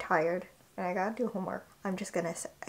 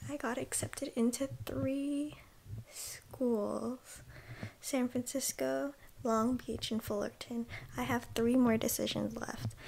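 quiet whisper; 7 dB quieter than usual. Real, not acted. Early morning, quiet.

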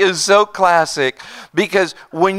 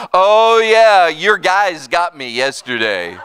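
cheerful laughing answer; laughing reply; 3 dB louder, slower than usual. Retold or imitated. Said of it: "He goes".

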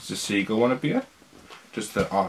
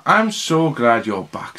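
warm; 6 dB louder than usual. Acted. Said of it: "said Santa".

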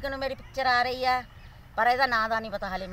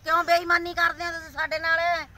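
pleading complaint; 3 semitones higher than usual. Real, not acted. Appeal to Modi on TikTok.

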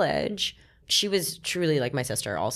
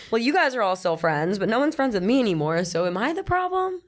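exasperated self-quote; 6 semitones higher, 4 dB louder than usual. Retold or imitated. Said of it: "I'm like".

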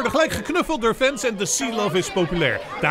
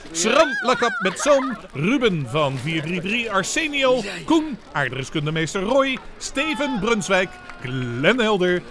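line-up announcement. Acted. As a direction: read each name like a stadium announcer.

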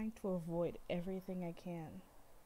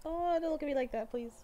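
higher, pleading fangirl whine; excited plea; 8 semitones higher, 3 dB louder than usual. Real, not acted. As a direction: beg the screen, flustered. Fangirling at idol on screen.

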